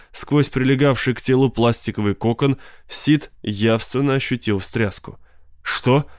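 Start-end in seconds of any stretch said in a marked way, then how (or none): 5.6-6.1 gasped. Acted. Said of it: "ахнул он".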